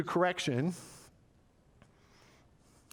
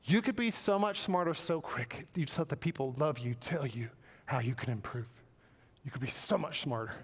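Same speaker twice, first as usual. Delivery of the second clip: not frustrated. Acted. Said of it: "He's not frustrated. He's just, he's just saying".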